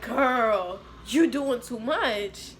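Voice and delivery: slow, stretched-out exasperation; drawn-out sassy reproach, retold; retold fed-up retort. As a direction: drag the words out, lightly mock fed up.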